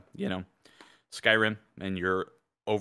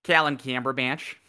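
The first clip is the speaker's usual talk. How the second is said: higher, flattened Minnesotan vowels on the name; Minnesotan accent; 4 semitones higher than usual. Shown as a demonstration. Co-host shows the villain's new name, Minnesotan accent. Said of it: "he rebranded from Southern to Minnesotan".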